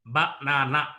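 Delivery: banana split evenly as ba, na, na; syllable by syllable. Shown as a demonstration. Teacher divides banana for learners, syllable by syllable. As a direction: say banana in three separate syllables. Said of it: "banana is divided into three syllables".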